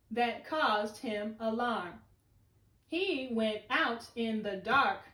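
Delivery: slow, careful choral read-aloud; slow poem reading. Shown as a demonstration. Teacher reading along with her students, slow. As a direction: read slowly together with the kids.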